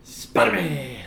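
broad Boston Spider-Man; Boston accent. Retold or imitated. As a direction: drop the r, Boston style. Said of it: "saying it with a Boston accent".

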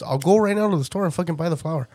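pushy promise to buy the flour right now; hyped up, half laughing; eager offer. Retold or imitated.

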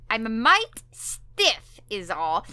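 put-on slow, drawn-out old-timer; old prospector voice. Voicing grandpa.

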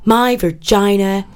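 lightly put-on American accent, reciting with mock pride. Sending up empowerment poets, in a mild mock American accent. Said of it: "I'm gonna do it in an American accent".

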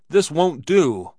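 loud, high, slow protest; yelling. A narrator's reading. Barkeeper objects to the Swede's plan, yelling. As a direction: yell it out, drawing the words long. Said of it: "yelled the barkeeper".

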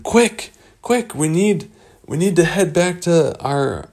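high-pitched, hurrying command; urgent. Acted. Rescuers needing to warm the frozen pair, urgent. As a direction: hurry the group along.

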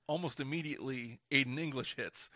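usual speaking voice

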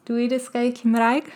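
"Dwi dysgu Cymraeg" said carefully, like a learner checking the sounds; Welsh phrase. Shown as a demonstration. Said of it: "I believe it's".

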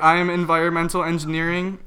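imitating a heavy Asian accent; broken-English Asian accent, halting. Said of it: "like, a heavy Asian accent".

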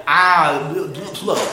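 acting out a parched mouth; mock gasp of severe thirst. Shown as a demonstration. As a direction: play it parched, barely getting words out. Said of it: "I mean like".

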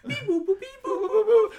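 high beeping robot, slow; toy robot voice. Pretend. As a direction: chirp it like a little droid. Imitating R2 beeping.

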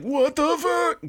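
high, drawn-out disbelief; mock freaked-out reaction. Everybody reacts to the stare, high mock shock. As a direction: squeal it slowly, like a stunned crowd.

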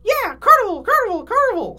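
put-on high, excited kid chant; high cheering cartoon voices. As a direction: cheer it in a squeaky voice. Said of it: "said the Cup Bros".

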